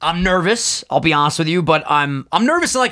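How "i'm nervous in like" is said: voice crack. Real, not acted. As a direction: voice cracking up high. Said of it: "welcome to Voice Crack City".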